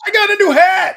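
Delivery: high, excited cartoon voice; toy figure voice. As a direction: brag about the hat as a tiny toy. Voicing the toy showing his hat.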